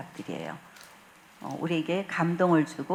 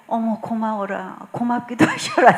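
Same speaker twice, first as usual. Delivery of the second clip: delighted laughing thanks; 2 semitones higher, 5 dB louder than usual. Retold or imitated. She thanks the Lord, delighted and laughing. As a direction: gush with thanks and laugh through it.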